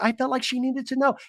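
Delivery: put-on high voice, explaining herself; Tamara's carrying voice. Tamara justifies telling, in a high imitated carrying voice. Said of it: "Tamara's carrying voice".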